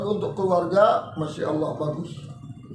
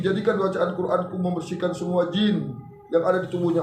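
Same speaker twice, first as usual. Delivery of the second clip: evenly recited supplication; model prayer; 3 semitones lower than usual. Shown as a demonstration. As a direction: recite a parent's plea to Allah. Models a prayer over water. (doa memohon kesembuhan anak)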